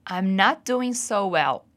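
slow, carefully spaced model sentence; fala lenta de modelo. Shown as a demonstration. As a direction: say each word slowly for learners. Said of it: "Repeat after me". (frase modelo lenta e bem articulada)

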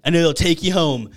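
buff villain taunt. Retold or imitated. Buff Carl Winslow taunts Rick to fight or flee, mock menacing. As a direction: dare Rick to fight, half laughing. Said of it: "And he's like".

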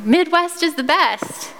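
booming friendly welcome shout; cheerful yell. Retold or imitated. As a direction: greet her loudly like a big friendly guy from across the hall. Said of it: "he yells across the room".

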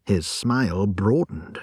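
plain reading voice

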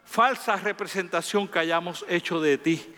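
earnest spoken prayer to God. Acted. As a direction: pray it, devoted and steady. Pastor prays aloud to God. (oración sincera y devota)

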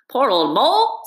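kind. A narrator's reading. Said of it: "said the rat kindly".

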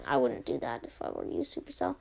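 low, ominous warning; a hammed-up villain threat; playful low-voiced threat; mock menace.

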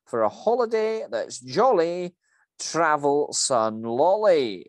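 Scottish manager delivering the company slogan; Scottish voice reciting a cheesy jingle. Acted. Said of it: "that was a very good accent there".

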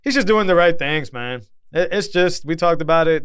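casual, unbothered; nonchalant. Real, not acted. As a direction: shrug it off, easygoing. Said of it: "That's why I sound so nonchalant about it".

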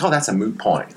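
"moot" with a plain oo, like "boot"; correct word moot. Retold or imitated. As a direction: say "moot" clearly without a y sound. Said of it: "I was like".

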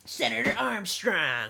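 slow, drawn-out name; game character quote. Acted. Friends trading video game quotes, drawn out. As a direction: stretch the name like a game cutscene.

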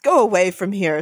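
mildly imperious order; understated haughty command. Acted. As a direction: dismiss him like a young master.

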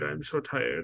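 mock whine fading to a hush. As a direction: fade into a feeble whimper. Mocking Mitchell's fake weakness.

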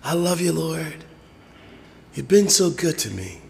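soft, half-whispered praise; mock timid praise. Shown as a demonstration. Preacher demonstrates praising the Lord too quietly, half-whispered. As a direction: show the wrong way, barely audible. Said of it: "You don't praise the Lord like this".

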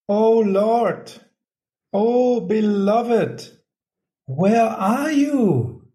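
high, drawn-out cry of longing. A narrator's reading. Devotee narrating Radha calling for her lost beloved, crying out. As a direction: call out slowly for an absent beloved, pitched high. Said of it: "And she cries out".

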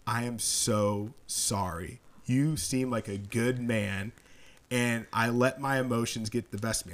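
slow, earnest retold apology; tearful apology. Angry stranger apologizing to the driver he yelled at, mildly tearful. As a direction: imitate a remorseful man, drawing out each phrase. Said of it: "he's tearing up in his eyes".

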